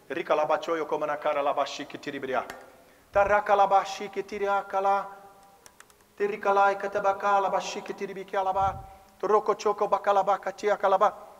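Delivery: easy casual tongues; tongues while doing tasks. Shown as a demonstration. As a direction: keep speaking in tongues as if doing chores. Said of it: "Agora eu vou tocar a bateria".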